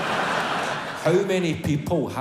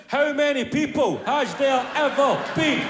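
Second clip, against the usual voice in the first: excited shout; 7 semitones higher than usual. Pretend. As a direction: call it out keen. Phone voice shouting the question.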